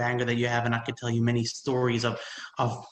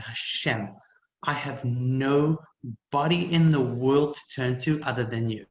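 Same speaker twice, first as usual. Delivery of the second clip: retold tearful prayer; slower than usual. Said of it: "I burst into tears and I said".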